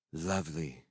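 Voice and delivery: quiet mock gravity; grave. A narrator's reading. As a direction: answer with a straight face. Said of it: "replied Laya gravely".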